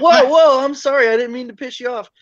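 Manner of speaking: a hammed-up taken-aback sorry; mock startled apology. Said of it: "And I was like".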